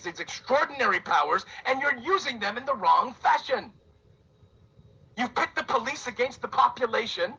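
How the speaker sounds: host ranting at the government, rising anger; angry rant. Real, not acted. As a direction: scold the leaders, growing heated. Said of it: "yes, I'm angry, and yes, I'm ranting".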